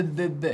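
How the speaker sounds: short, repeated "be" sounds; "be, be" as bare letter sounds; isolated B sound. Shown as a demonstration. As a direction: sound out "be, be" as separate voiced consonants. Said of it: "quel son qu'on entend dans baleine".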